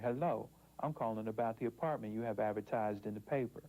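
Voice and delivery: same sentence in an African American accent. Shown as a demonstration. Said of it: "When I use my African-American dialect".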